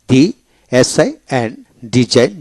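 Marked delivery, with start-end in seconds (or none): 2.0-2.3 "ডিজাইন" with no g before the n; silent G. Shown as a demonstration. Teacher showing learners a silent letter, "ডিজাইন" without G. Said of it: "জি উচ্চারিত হবে না".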